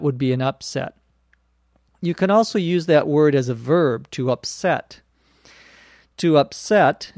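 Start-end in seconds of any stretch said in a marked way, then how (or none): 4.1-5.0 "upset" with stress on SET; stress on second syllable. Shown as a demonstration. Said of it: "notice the accent on the verb is on the second syllable". 6.2-7.1 "To upset" with stress on SET; stress on second syllable. Shown as a demonstration. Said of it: "notice the accent on the verb is on the second syllable".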